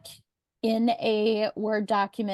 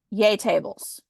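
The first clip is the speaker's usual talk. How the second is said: mock cheer, slightly sarcastic; 4 dB louder than usual. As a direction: feign a little enthusiasm for a tiresome topic. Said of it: "in my best sarcastic voice".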